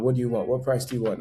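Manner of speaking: imitating bargaining vendor. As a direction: play a vendor coaxing back a buyer. Vendors haggling as customer walks away.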